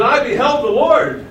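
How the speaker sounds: prophet's declaration in a preacher's voice; quoting Isaiah. Acted. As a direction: proclaim it high and strong. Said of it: "He said".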